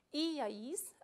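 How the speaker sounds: "iais" with the first i stressed, apart from "ais". Shown as a demonstration. Teacher showing the vosotros ending, stress on the first i of "iais". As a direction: lean on the opening i of "iais".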